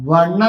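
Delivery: "വൺ" starting with a clear W/V glide; pronunciation demo. Shown as a demonstration. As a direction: sound out "വൺ" as a consonant-first word. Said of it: "അതെങ്ങനാ?".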